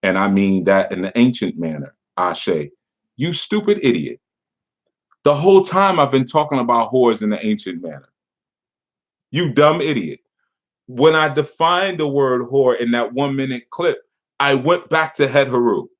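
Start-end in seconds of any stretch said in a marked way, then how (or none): 3.2-13.1 higher, exasperated "idiot"; exasperated insult. Real, not acted. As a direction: throw it at him, fed up. Berating the commenter.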